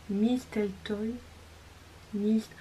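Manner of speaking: slow attempt in French-accented English; hesitant French-accented English word. Real, not acted. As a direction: sound out "Mistletoe" slowly with a French accent. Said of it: "moi, mon accent anglais".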